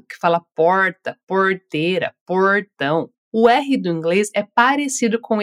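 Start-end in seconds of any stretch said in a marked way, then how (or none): 0.5-3.1 rolled rural R in porta, porteira, portão; country Brazilian R. Shown as a demonstration. Teacher showing the countryside R in porta, porteira, portão. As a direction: roll the R like a cousin from the countryside. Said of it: "fala com esse R bem carregado".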